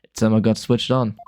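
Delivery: flat, even synthesized speech; robot voice. Acted. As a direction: speak like a text-to-speech machine. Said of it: "strange robotic voice".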